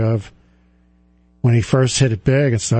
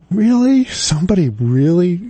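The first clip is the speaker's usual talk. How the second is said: chuckling disbelief; 5 semitones higher than usual. Retold or imitated. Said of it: "kinda chuckle and go".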